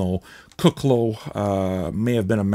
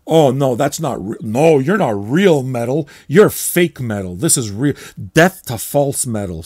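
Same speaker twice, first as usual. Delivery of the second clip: mocking metal purist; 2 semitones higher, 5 dB louder than usual. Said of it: "much like we do in the music industry".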